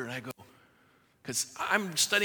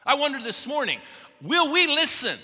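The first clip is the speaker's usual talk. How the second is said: rising challenge; 9 semitones higher, 4 dB louder than usual. Real, not acted. Preacher challenging congregation.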